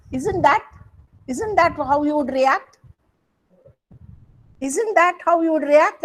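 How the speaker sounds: rising, amazed isn't that; lifted, questioning disbelief; surprised question. Shown as a demonstration. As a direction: sound taken aback, stress on that. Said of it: "That is an interjection".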